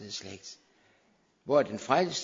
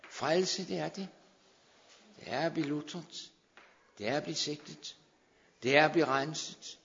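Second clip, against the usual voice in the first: fervent insistence; 4 semitones higher than usual. Real, not acted. Rebuts objection, fervent.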